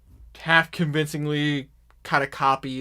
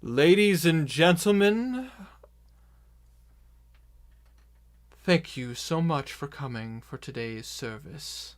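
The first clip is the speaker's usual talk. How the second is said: PA announcement. Acted. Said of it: "kinda like a P A system".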